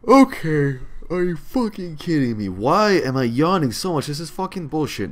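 real exasperated shouting, high and loud; annoyed outburst. Real, not acted. Gamer cursing because he keeps yawning, loud and annoyed. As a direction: burst out loudly in angry disbelief. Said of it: "This is annoying to me".

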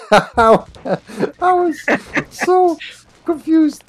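high, breaking up with laughter; laughing apology. Real, not acted. Player apologising for confusion in the game, laughing through it. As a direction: try to explain through real giggles. Laughing while explaining mistake.

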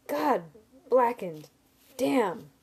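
loud pained cry through teeth; pained curse. A narrator's reading. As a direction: curse out loud in sudden pain. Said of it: "I gritted out between my clenched teeth".

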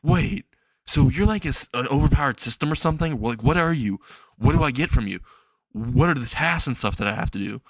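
mild, hurried burst of questions; half-hearted shouting at the system; mock screaming. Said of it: "looking at the system and screaming".

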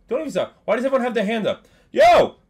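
high, loud, urgent pleading at the TV; excited yelling. Real, not acted. Streamer yelling at the football game, excited and loud. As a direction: yell at the game on TV.

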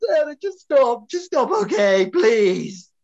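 loud, sharp telling-off; exasperated loud plea to stop; angry snap. Acted. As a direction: shut her down hard. Actor snaps at castmate.

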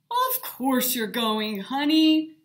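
firm but kind dad. A narrator's reading. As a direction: insist gently but firmly. Dad insists kindly.

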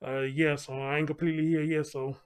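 muffled behind a mask; talking through a mask; through a face mask. Real, not acted. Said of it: "excuse the mask".

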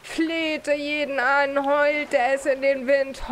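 slow, drawn-out character storytelling; haunted tale, told slowly; dramatic recounting. Acted. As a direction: stretch each phrase for drama. Father dramatically recounts mayor's madness.

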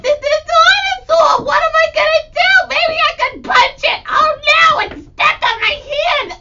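high, loud mock panic; hammed-up dinosaur attack play; panicked toy play. Playing with dino toys.

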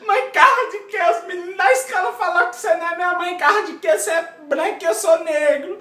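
high, loud, hammed-up childish wail; crying child. Adopted boy wails to his mother about the schoolkids, mock crying. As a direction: play the sobbing little boy, fast and high. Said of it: "cheguei em casa chorando".

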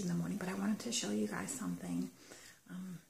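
hushed, keeping it down; quiet at night. Real, not acted. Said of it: "I'm talking quietly because, uh, my kids are still sleeping".

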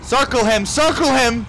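high, loud battle call; urgent call. Real, not acted. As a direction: call it out sharply in mid-fight. Urgent call during fight.

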